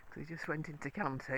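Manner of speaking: ordinary talk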